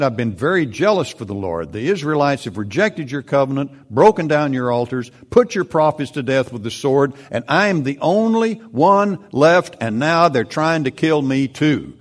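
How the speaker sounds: high, loud, rising self-pitying protest; Elijah complaining. Acted. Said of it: "He replied".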